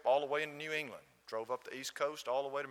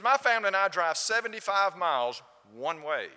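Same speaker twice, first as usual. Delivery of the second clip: raised voice, imitating his insistence; louder and higher, driving the point home; emphatic retold complaint; 3 semitones higher, 8 dB louder than usual. Gentleman telling the visitor of his long drive, emphatic retold complaint.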